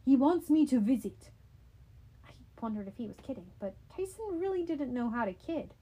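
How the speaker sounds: a hint of a simple big kid, proud; childlike Cyclops Tyson. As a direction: Tyson earnestly telling Percy about Daddy's invitation.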